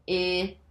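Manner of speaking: 'I' held as the short vowel in 'sit'; single letter sound. Shown as a demonstration. Teacher going back through the word, isolated 'I'. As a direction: sound out 'I' as a lone 'ih'. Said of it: "say this sound".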